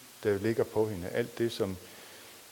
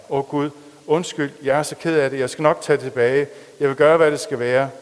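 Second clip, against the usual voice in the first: crying; 4 semitones higher, 10 dB louder than usual. Acted. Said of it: "græd hun".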